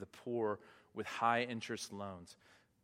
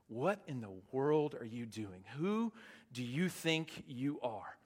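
mocking. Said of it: "They are just mocking them".

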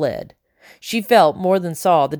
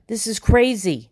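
gone shrill; 5 semitones higher than usual. Acted. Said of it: "Tumble's voice had gone shrill".

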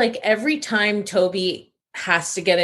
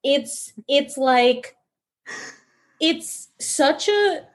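laughing; 7 semitones higher, much slower than usual. Real, not acted. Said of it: "laughing while speaking".

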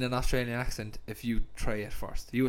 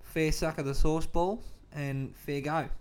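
put-on Aussie accent; casual Australian accent for show; 2 semitones higher than usual. Shown as a demonstration. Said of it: "they love my Aussie".

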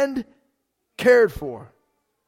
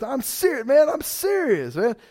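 impression of Daniel; 4 semitones higher than usual. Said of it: "did I do a pretty good impression of Daniel?".

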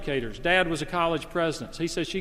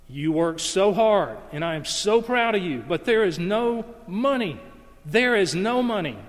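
tearful plea building; 4 semitones higher, 3 dB louder than usual. Retold or imitated. Preacher voicing the crying wife to her husband: louder, higher, tearful. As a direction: let the wife's plea swell, higher and louder. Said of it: "Evie started crying".

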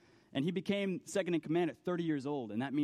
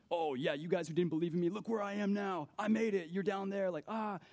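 higher, mock-taunting brag; mocking gloat; 4 semitones higher than usual. Famous person mocking those who doubted, teasing. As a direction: lightly taunt the doubters from the top. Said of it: "use that position to mock".

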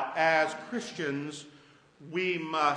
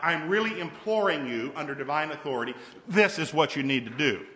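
a firm, commanding plea under divine authority; authoritative command; 3 semitones lower, 4 dB louder than usual. Retold or imitated. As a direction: lay down the law firmly. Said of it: "It's like".

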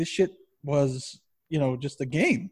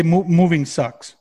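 drawn-out slower mock "moving sucks"; mock obvious sympathy; 7 dB louder than usual. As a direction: stretch "moving sucks" as a tired cliché. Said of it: "they say".

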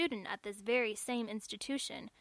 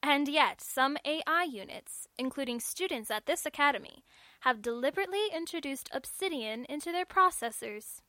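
pointed accusation; 4 semitones higher, 5 dB louder than usual. Acted. Registrar makes accusation.

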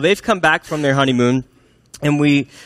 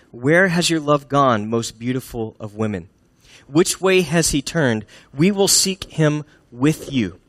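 solicitous verse reading. Acted. Young women offering to help search for her lover, solicitous.

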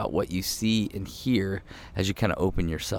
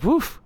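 high-pitched puff of self-satisfied relief; pleased, whooping exhale; relieved woof. Retold or imitated. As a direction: let out a high "woof" after a job. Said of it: "I was like".

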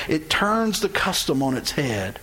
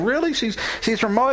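shocked disbelief; 6 semitones higher than usual. Acted. Cousin shocked at Ruth's origin.

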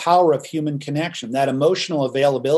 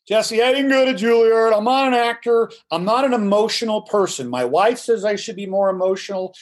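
higher, mock-defensive client voice; imitating a stubborn lawyer; 4 semitones higher than usual. Lawyer protesting to his coach, mock-defensive and higher. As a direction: play the unemotional lawyer protesting. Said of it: "I'll hear that again".

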